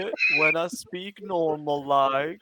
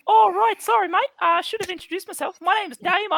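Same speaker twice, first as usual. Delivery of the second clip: fast, higher Australian bogan voice; sassy bogan; 11 semitones higher, 4 dB louder, faster than usual. Acted. Tree dropping its act in a fast Australian bogan voice. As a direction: rattle it off like a cheeky Aussie bloke. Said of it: "he turns back around and says".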